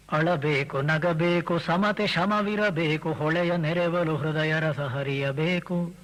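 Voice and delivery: slow, measured verse chant; reciting Mankutimmana Kagga to the audience; poem recitation. Acted.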